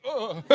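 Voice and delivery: high, soft uneasy groan; mock queasy "ugh"; heavy gulp groan. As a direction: imitate a heavy swallow and grunt. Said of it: "she swallowed heavily and went".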